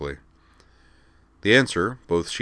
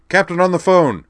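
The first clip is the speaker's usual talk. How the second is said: much higher, loud barked announcement; military bark; 12 semitones higher, 10 dB louder than usual. Acted. Background crewman warns the others, loud military bark. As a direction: bark it like a drill sergeant. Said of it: "a military-sounding voice barked".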